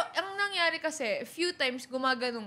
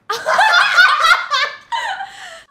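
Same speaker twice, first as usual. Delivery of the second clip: shrieking laugh; loud high laugh; 13 dB louder than usual. Real, not acted. Stunned reaction to the reveal.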